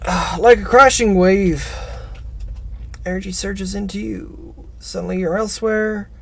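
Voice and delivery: game text narration. Acted. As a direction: read the vision out like a storyteller. Reads game text aloud.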